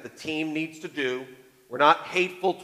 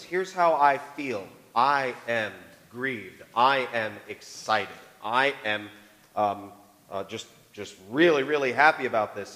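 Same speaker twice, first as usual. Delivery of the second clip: feelings spoken slowly; 5 semitones lower, slower than usual. Shown as a demonstration. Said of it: "We converse between personal opinions and personal feelings".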